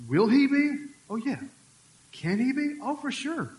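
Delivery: high, loud ringing affirmation; emphatic loud. Real, not acted. Preacher insisting God can speak loudly, loud. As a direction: proclaim it with full force.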